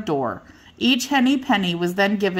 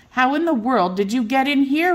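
surprised cry; 6 semitones higher than usual. A narrator's reading. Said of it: "she cried".

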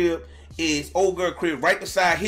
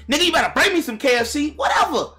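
lightly acted sassy phone talk, higher pitched; mock phone chatter; 5 semitones higher than usual. Someone chatting on the phone while holding up traffic, lightly acted sass. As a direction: play someone running their mouth on a call. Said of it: "running your mouth with that nigga".

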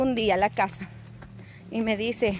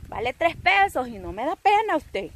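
sassy retort; 5 semitones higher than usual. Pretend. Talking back to envious critics.

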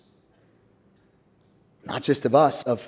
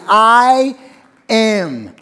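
louder, ringing I am; triumphant proclamation; proclaimed I am; 4 semitones higher, 6 dB louder than usual. Acted. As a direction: declare it with full force. Jesus' name, climactic declaration.

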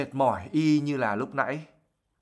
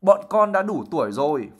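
loud bellow, a bit higher; 4 semitones higher, 5 dB louder than usual. Acted. Loud bellow. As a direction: twins bellowing to their mother they are of age. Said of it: "Fred và George giống lên".

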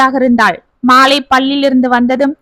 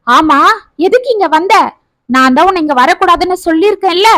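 higher, fast worried scolding; anxious scolding; 4 semitones higher than usual. Acted. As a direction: hurry her words out in worry. Mother anxiously scolds daughter.

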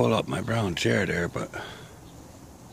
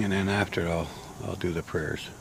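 winded after the walk; short of breath, tired; 3 dB quieter than usual. Real, not acted. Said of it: "Gotta catch my breath first".

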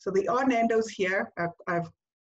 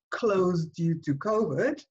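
slow, downbeat read of a closing notice; negative message; 3 semitones lower, slower than usual. Shown as a demonstration. Slow, downbeat notice read to show the negative message. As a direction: read it out slowly like a gloomy shop sign. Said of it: "Can you hear the slight emotional difference".

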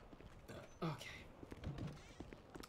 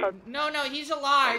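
louder, pushing over the radio; insistent; 5 semitones higher, 10 dB louder than usual. Real, not acted. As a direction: raise the voice to correct them.

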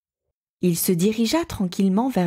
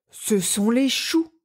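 frightened moan; 4 semitones higher, slower than usual. A narrator's reading. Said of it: "gémit l'ours".

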